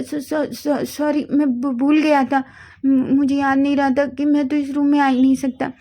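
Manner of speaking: put-on boy caught in the wrong room, stammering nervously. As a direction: trip over the words, caught out.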